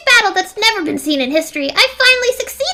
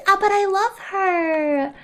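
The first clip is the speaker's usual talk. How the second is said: mock crying; much slower than usual. Mock grief over Chiaki.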